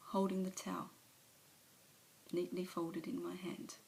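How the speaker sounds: an alcoholic owning up, subdued; Alice's confession. Acted. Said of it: "a monologue from one of, of her movies".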